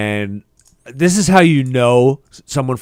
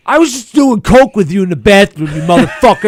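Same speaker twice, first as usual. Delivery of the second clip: mock outraged retort; 6 semitones higher, 4 dB louder than usual. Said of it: "and I'm like".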